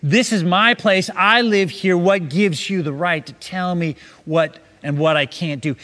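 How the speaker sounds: mild mock yell, firmly punched words; retold yelling. Buddy confronting the ten-year-old son, mildly mock-yelling. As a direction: act out an angry yell without full volume. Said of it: "began yelling him, at him and saying".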